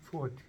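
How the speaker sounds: 스워드 said the way Koreans say it; Korean-style mispronunciation. Shown as a demonstration. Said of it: "한국 사람들이 스워드라고". (한국식 발음 스워드 흉내)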